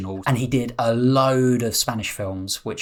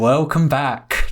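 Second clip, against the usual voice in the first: ghostly drawn-out welcome; 3 semitones higher, 3 dB louder, slower than usual. Pretend. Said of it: "Not spooky at all".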